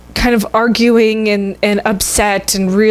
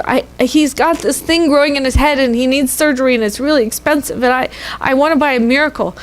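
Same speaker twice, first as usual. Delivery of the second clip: put-on higher, earnest child's plea; lightly voiced little girl; 5 semitones higher than usual. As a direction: explain it like a hopeful eight-year-old. Girl explains to the surgeon.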